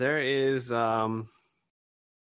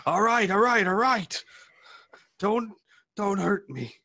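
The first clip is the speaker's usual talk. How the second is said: higher, louder pleading of all right; pleading surrender; 8 semitones higher, 4 dB louder than usual. Acted. Wounded raider begging the robot not to hurt him, afraid. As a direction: beg for mercy with hands up.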